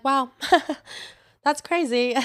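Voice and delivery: high, loud, laughing through mock surprise; laughing disbelief. Mock reaction retold with laughter.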